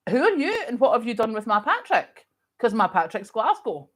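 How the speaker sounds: playfully retold incredulous demand; mock disbelief. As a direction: act out being baffled by an impostor. Acting out her shocked reaction to Patrick.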